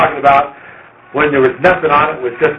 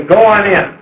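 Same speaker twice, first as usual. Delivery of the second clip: a shade higher call that sends them on, go on in; sending call; 4 semitones higher than usual. Shown as a demonstration. Host outside the house sends the visitor in, a lightly raised call. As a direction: direct them inside from out in the yard. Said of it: "You don't say".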